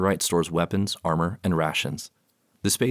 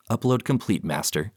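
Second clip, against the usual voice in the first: robot voice; 4 semitones higher than usual. Acted. Robot reporting to master.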